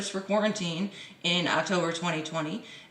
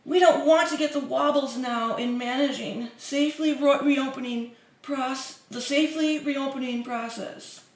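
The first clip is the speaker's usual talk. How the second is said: higher mock politician voice; mock Morrison; 5 semitones higher than usual. Vlogger parodying Scott Morrison, higher mock voice. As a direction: parody the PM's caution.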